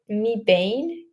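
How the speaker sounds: "Me Bain" with "mee" and a long "bayn"; "Me Bain", trying it as mee-bayn; tentative pronunciation. Shown as a demonstration. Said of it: "how I'm supposed to pronounce it".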